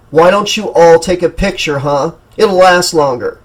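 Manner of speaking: angry outburst. Acted. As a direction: snap at the gawking crowd. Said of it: "the young man's outburst".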